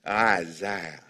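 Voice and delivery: low, soft "Isaiah" in an imitated Jewish accent. Shown as a demonstration. Preacher wishing to say it like Jewish people, imitated Jewish accent. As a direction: say "Isaiah" deep and quiet, attempting a Jewish accent. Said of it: "say it like Jewish people".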